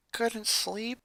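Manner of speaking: soft, hushed question; whisper. Acted. Lincoln whispering to Ronnie Ann at night. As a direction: whisper so no one wakes. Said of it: "he whispered".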